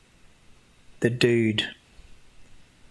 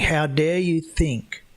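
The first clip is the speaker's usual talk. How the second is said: indignant God; 2 semitones higher than usual. Retold or imitated. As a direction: play God scolding the doubters, mildly hammed-up.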